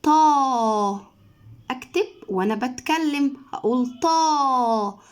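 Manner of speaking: طا stretched slowly with an open a; drawn-out tah. Shown as a demonstration. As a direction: say طا long while writing. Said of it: "ولكن لازم يقول". (طا ممدودة وهو بيكتب)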